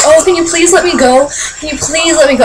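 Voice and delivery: politely begging, put on; mock nice pleading. Imagining a grabbed singer asking fans, mock nice pleading. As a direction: imitate a meek, polite plea. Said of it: "being all nice about it".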